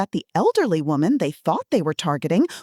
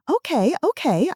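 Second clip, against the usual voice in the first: higher, fretful granny voice; confused old lady; 8 semitones higher than usual. Acted. Fake granny obeying the scammer, high and fretful. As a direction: fuss along like a flustered grandma. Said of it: "I maintained my confused elderly woman role".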